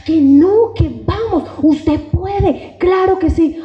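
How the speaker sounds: bright, rising pep talk; encouraging. Retold or imitated. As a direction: cheer yourself on. Cheering on the other self. (ánimo entusiasta y agudo)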